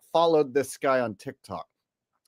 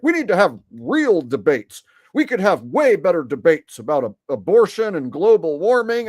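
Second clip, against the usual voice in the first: imitating dad; 5 dB louder than usual. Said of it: "But then he'll be like".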